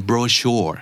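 brochure in American English, strong final R; American brochure with a clear R; American accent. Shown as a demonstration. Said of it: "อเมริกันออกตัว R ค่อนข้างชัด".

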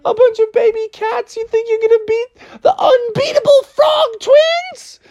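high, laughing scornful frog; mocking frog. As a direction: sneer at the baby cats. Froggy mocking kittens.

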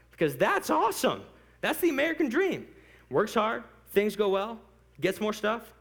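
high, loud, excited approval; gushing enthusiasm. Retold or imitated. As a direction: cheer it on eagerly. Acts out own delight at story.

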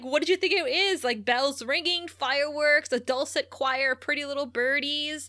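mock-dreamy list, making fun of her; lightly sneered imitation of a taunt. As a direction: imitate someone scornfully teasing a lover. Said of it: "he's, like, making fun of her".

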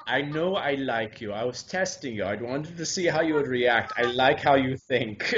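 put-on lightly accented German old gentleman. Playing the old man admitting a test, German accent. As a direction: quote him in an easy German accent. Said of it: "it's such a great accent".

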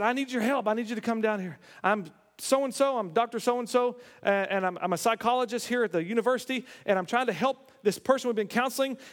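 stammering, mildly panicked plea; panicked caller. Retold or imitated. Psychologist phones a preacher for help, panicked. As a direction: imitate a flustered man asking for help. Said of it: "a man who was panicked".

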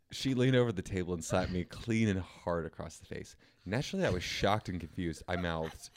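measured read-aloud storytelling; deliberate storyteller delivery; story narration. A narrator's reading. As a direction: read it out like a solemn short story. Reads a date story aloud.

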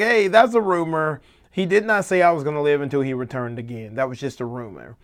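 emphatic mock protest; setting the record straight. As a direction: quote a writer eagerly squashing gossip. Acting out John correcting a rumor.

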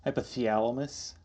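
soft Minnesota twang on the vowel; mock Minnesota accent. Co-host echoing the podcaster's word, mock Minnesota accent. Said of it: "it's like a Minnesota thing".

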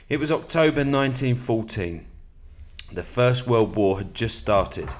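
steady, measured book reading; calm nonfiction narration; reading aloud. Acted. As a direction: read the passage to your listener. Reads a war biography aloud.

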